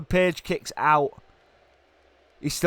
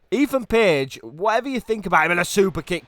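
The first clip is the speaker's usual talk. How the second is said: amazed; 7 semitones higher than usual. Real, not acted. Amazed by wrestler's kick-out.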